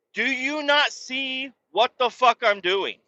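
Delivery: can't you see what I'm doing; retold exasperated retort. Dad snapping at lifeguards, exasperated. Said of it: "And I'm like".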